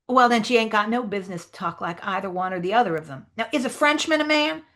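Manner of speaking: lightly voiced arguing dialect character; Jim. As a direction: build the case, rising high on the question. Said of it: "try to sort of read the Jim lines".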